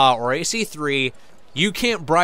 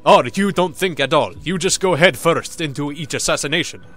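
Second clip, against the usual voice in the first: mildly mocking scold; lightly voiced reprimand; scolding assassin; 4 dB louder than usual. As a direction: imitate a fellow assassin's telling-off. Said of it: "scold Altair because he's like".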